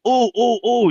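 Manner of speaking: high, excited "pick me" oohs; eager volunteer. Retold or imitated. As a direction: mimic an overeager pupil begging to be picked. Acts out himself eagerly volunteering.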